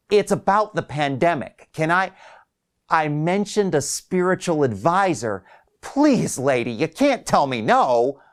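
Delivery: desperate patient begging the caller to listen; pleading old man. Acted. Wiley pleading to confess.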